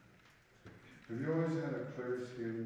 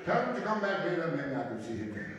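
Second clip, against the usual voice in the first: loud, high, hammed-up German accent; 9 semitones higher, 6 dB louder than usual. Comic sketch between officer and leader, loud mock German accent. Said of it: "I like to do that German accent".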